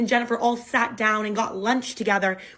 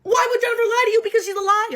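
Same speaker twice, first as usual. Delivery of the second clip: much higher, laughing in disbelief; incredulous laughing; 12 semitones higher, 4 dB louder, faster than usual. Retold or imitated. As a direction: laugh the words out at how absurd it is. Echoing his question, incredulous.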